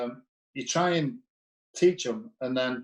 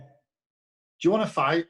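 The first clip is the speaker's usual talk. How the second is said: slow menacing challenge; 7 semitones higher, 4 dB louder, much slower than usual. Retold or imitated. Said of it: "gaffer challenges to fight".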